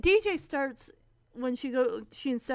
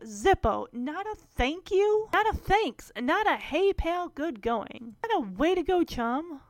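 imitating Stephanie's rant. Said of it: "Stephanie starts in with".

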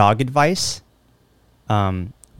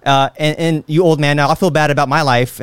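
tough gym bro; 4 semitones higher than usual. Retold or imitated. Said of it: "all that shit's like".

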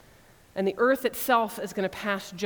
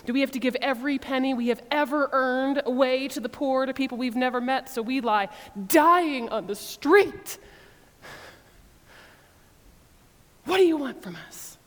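upset and ridiculous; 3 semitones higher than usual. Retold or imitated. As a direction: overplay the melodrama. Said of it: "increasingly upset, increasingly ridiculous".

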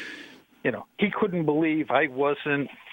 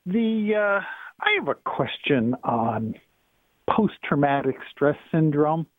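phone line caller; thin, filtered telephone voice; over the phone. Real, not acted. Caller on radio show.

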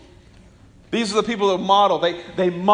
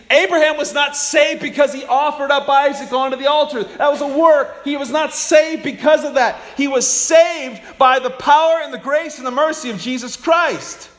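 high and loud, hammering each phrase; preaching at full force; 5 semitones higher, 3 dB louder than usual. Acted. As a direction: preach it out to the whole room.

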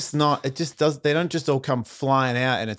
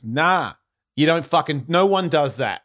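put-on steep Australian accent, argumentative; combative Australian accent; 3 semitones higher, 3 dB louder than usual. Skater calls out the skate shop guy, combative Australian accent. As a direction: argue back in thickened country Australian. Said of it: "accent gets way steeper".

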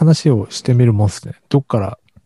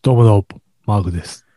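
half-hearted try at speaking briskly; attempted crisp greeting; 2 semitones lower than usual. Shown as a demonstration. Podcast host tries a crisp opening greeting on request, half-hearted briskness. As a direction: punch the opening, then let the name drop. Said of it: "じゃあ、ハキハキ行ってみて、".

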